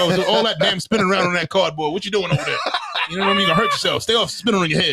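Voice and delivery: lightly voiced grumbling old man. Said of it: "you got your old man voice down pretty well".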